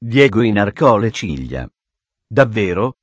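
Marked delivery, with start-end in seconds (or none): 2.2-2.9 mildly surprised, restrained exclamation; a touch of surprise, held in; exclaimed surprise. A narrator's reading. Diego reacts to news of the fugitive, mildly surprised. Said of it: "esclamò".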